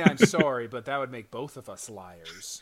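mock roommate retort, loud at both ends; hammed-up petty comeback, dragging the middle; passive-aggressive. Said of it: "it's passive aggressive to the gills".

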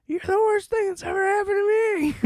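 high squeaky mock-nasty mother voice; mock cruel mom. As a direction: spit it out like a cartoon villain mom. Mother insults child.

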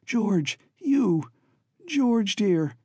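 like finding someone you feared lost; cried out gladly. A narrator's reading. Babs finding George in the cage, glad cry. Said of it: "She cried again".

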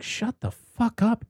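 a high, slow, hammed-up snap; mock angry Sarah. Sarah tells Kyle to shut up, in a high mock snap. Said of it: "Sarah's just like".

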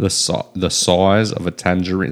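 "size" said like "soize" in an Aussie accent; Australian accent demo. Shown as a demonstration. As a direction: show how an Australian says "size". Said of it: "That's how you do an Australian accent".

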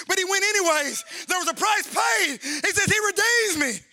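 preacher's pitch climbing to a peak; rising preaching. Real, not acted. Preacher proclaiming the price paid to redeem him, rising preaching. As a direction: lift each phrase toward a shouted finish.

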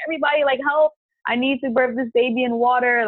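rally everyone, urgently; urgent call for help. Retold or imitated. Calling family to help fill tub.

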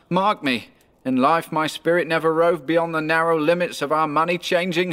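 high-pitched ghostly lament; mournful ghost. Acted.

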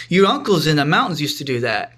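imitating mom's light Korean accent; a hint of a Korean mother's accent; lightly put-on Korean accent. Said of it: "a little in her Korean accent".

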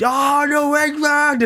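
high, drawn-out whoop; imitated friend's excited holler; gleeful cry. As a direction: crow it out in delighted mockery. Friend's gleeful cry on hearing accent.

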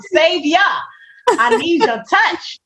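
half-joking plea to the Savior; mock pleading prayer. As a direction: draw out a dramatic prayer. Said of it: "You're gonna be like".

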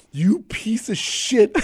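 slow, breathy whispered contempt; whispered insult. Retold or imitated. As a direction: hiss it slowly under the breath. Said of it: "A look of like".

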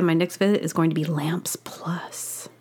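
whispered aside. Real, not acted. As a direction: whisper it like a little secret. Whispering about lamp shopping.

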